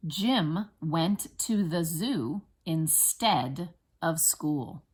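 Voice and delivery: slow, separated words with clear stresses; teacher's deliberate word-by-word reading; spelling dictation. Shown as a demonstration. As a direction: dictate it slowly for first graders to write. Teacher dictating second sentence.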